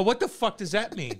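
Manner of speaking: flustered retort. Retold or imitated. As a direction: replay your baffled comeback to a taunt. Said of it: "I was flustered".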